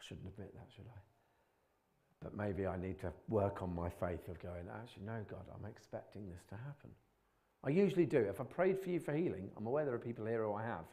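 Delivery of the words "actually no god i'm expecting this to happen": expectant prayer. Retold or imitated. Imagined confident prayer.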